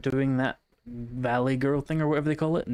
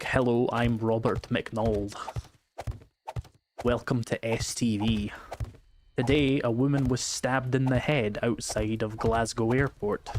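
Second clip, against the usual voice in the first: Scottish newsreader impression; slower than usual. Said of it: "my Scottish newsreader character name".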